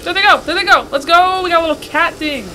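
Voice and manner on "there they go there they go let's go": louder, eager calls; excited cheer. Real, not acted. Streamer cheering on the game parts, excited. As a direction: hype it up.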